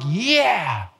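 a lightly done bored, offhand yeah; bored reply. Retold or imitated. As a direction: shrug it off like worship doesn't touch you. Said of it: "I don't want to be like".

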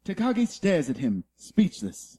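a light wildlife documentary narration; nature documentary narrator. Acted. Reading the Die Hard script as a nature documentary, lightly. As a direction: narrate the scene like a nature film. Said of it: "Planet Earth, uh, narrates Die Hard".

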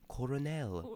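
colonel said as "kor-o-NEL"; old French pronunciation. Shown as a demonstration. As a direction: give colonel three syllables with an R, coronel. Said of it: "sixteenth century French word".

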